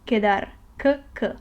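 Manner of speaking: "quedar" with a plain K, then the K sound alone. Shown as a demonstration. Teacher demonstrating Q, "quedar" with K, then bare K sounds. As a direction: say "quedar" as keh-dar and isolate K twice. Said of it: "pronounced like the pronunciation of C and U together".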